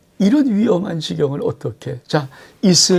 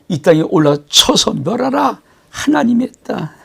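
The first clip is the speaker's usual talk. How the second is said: imperious claim; 5 semitones higher, 6 dB louder than usual. Acted. Enemy commander claiming God sent him to destroy, imperious. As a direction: pitch rising sharply into a proclamation.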